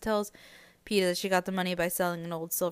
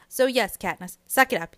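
teasing; 3 semitones higher, 6 dB louder than usual. Real, not acted. Teasing the book character loudly.

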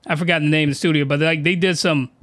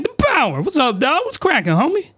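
casual greeting; 8 semitones higher than usual. Retold or imitated. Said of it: "So I was like".

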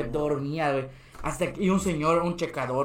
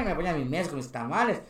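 ordinary talk, nothing marked

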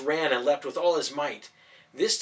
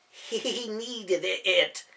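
defensive; 7 semitones higher, much slower than usual. Acted. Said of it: "Daniel defended".

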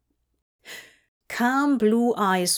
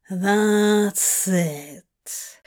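purring. A narrator's reading. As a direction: purr it approvingly. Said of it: "Crowley purred".

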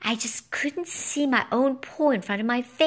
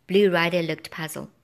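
ordinary delivery

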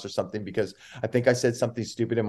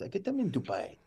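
higher and much softer, breezy; soft fawning reply; 8 semitones higher, 9 dB quieter than usual. Retold or imitated. Wallace answering about his shoes, soft breezy coo. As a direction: toss it off sweetly. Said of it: "He goes".

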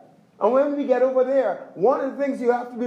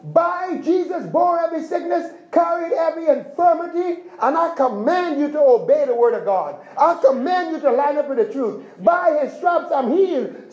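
commanding declaration; 3 semitones higher than usual. Retold or imitated. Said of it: "You command your body".

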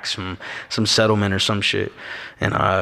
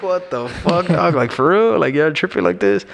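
incredulous; 7 semitones higher than usual. Retold or imitated. His own disbelieving reply.

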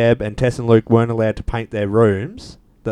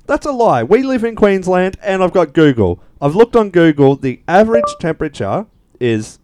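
higher, riled-up complaint; indignant; 7 semitones higher than usual. Real, not acted. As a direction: get worked up over the lie. Indignant rant about lie.

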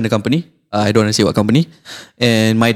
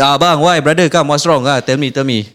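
exaggerated Malay accent; 3 semitones higher than usual. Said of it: "Exaggerated Malay accent".

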